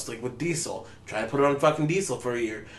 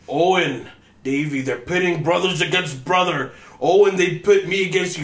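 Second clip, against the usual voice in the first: impassioned pleading; 4 semitones higher, 4 dB louder than usual. Retold or imitated. Retold pleading manipulative promo.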